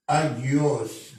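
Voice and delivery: أجيوس said as "agios", hard g; Coptic word demo. Shown as a demonstration. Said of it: "مثل كلمة". (نطق أجيوس بوضوح كمثال)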